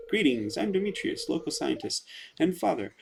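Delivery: a hint of a proper scientist; Demetrius voice. Voicing Demetrius.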